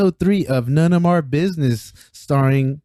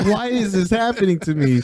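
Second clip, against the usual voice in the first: mock distress; 6 semitones higher than usual. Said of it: "he's like".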